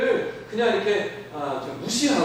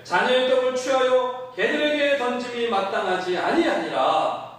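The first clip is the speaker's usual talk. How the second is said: scripture reading; 5 semitones higher than usual. Acted. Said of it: "대답하여 이르시되".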